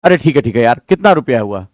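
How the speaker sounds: low, resigned voice; a dad who just wants the noise to stop; father sighing and asking how much; weary father giving in. Retold or imitated. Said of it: "आपके पापा क्या action लेते हैं?".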